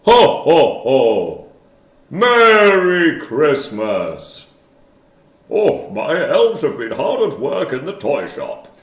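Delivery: booming jolly Santa laugh; loud hearty Father Christmas. Shown as a demonstration. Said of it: "record your Santa voice".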